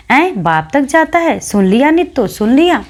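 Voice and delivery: put-on high, outraged yell at the boy's cheek; outraged shriek. A narrator's reading. Old widow screeching to the maid, outraged and high. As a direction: shriek it, scandalised, calling for a witness. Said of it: "खूब जोर से चिल्लाकर बोली".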